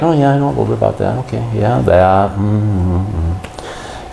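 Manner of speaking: rushed, offhand know-it-all mumble; casually dismissive. Retold or imitated. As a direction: brush it off like you already know it all. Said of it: "And I'm like".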